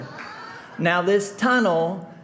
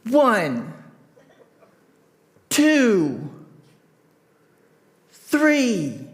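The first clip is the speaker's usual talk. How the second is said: firm count; 6 semitones higher, much slower than usual. Retold or imitated. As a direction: count it out slowly, a beat apart. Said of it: "counting to three".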